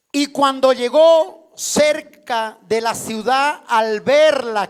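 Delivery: loud, slow reading of the verse; scripture reading. Acted. Preacher reading Luke to the congregation, loud and slow. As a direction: read the verse out slowly and loudly to the hall.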